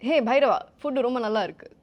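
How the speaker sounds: loud, perky character voice; Bujji. Pretend. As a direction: call it out loudly, playing a film character. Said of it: "in your bougie voice".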